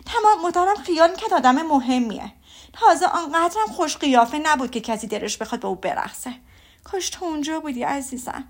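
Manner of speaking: mother railing against Mr Darcy, bitter and overdone; bitter exaggerated complaint. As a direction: run down the rude man with relish. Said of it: "با لحن تلخ و کمی اغراق".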